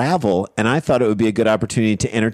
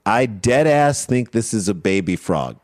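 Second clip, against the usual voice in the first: slow deadpan quote; 2 semitones lower than usual. Retold or imitated. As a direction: read it slowly, completely deadpan. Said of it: "With that deadpan vo".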